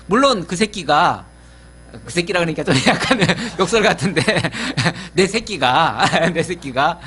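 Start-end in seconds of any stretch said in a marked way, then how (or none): 2.0-7.0 laughing through the words. Real, not acted. Pastor laughs at his own slangy word, laughing. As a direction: chuckle at the crude word.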